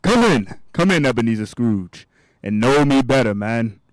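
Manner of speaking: loud, hearty welcome from a giant ghost; jolly giant spirit. Acted. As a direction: boom it out like a jovial giant. Ghost of Christmas Present welcomes Scrooge.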